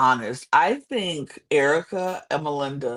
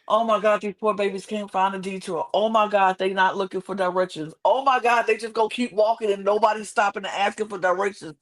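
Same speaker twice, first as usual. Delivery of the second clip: mild mock yell, pitched up; retold exasperated screaming; 5 semitones higher, faster than usual. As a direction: fret aloud at the TV in mock despair. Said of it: "I screamed that eight times in a row".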